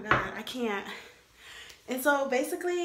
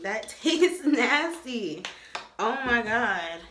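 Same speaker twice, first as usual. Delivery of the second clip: slow, louder laugh-through; laughing disgust; 6 dB louder, slower than usual. Real, not acted. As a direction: laugh at the awful taste.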